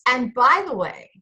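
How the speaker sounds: high, hammed-up Southern charm; Southern drawl. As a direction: pour on a mock Southern drawl. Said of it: "I can start the Southern drawl in it too".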